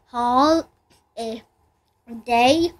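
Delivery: Hall, a, day spoken with long pauses between; teacher clapping out Hall, a, day; sounded out by syllable. Shown as a demonstration. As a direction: break holiday into Hall, a, day. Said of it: "three syllables".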